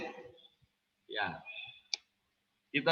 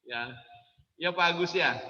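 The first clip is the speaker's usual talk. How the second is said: usual speaking voice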